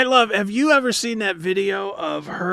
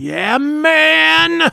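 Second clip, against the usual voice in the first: stoner drawl; 10 semitones higher, 6 dB louder than usual. Acted. Stoner drawl on subversive song.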